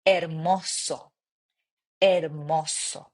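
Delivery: hermoso with no h, er-MO-so; silent h. Shown as a demonstration. Teacher modelling the silent h, Spanish pronunciation. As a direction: drop the h in hermoso. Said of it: "Again, no H".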